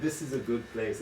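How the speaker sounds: parroting her plain little sentence; gentle teasing imitation of his wife; mimicking partner's basic English. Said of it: "your English is so basic, you're like".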